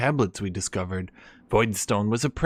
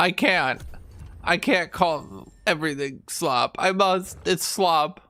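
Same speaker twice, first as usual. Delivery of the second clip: fake tearful breakdown with high blubbering sobs; 6 semitones higher than usual. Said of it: "You guys are gonna start crying, breaking down in tears".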